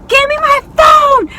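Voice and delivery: high, drawn-out mock scream; retold scream. Teller demanding her snatched phone back, acted scream. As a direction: scream it slowly, acting out desperation. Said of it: "I'm screaming".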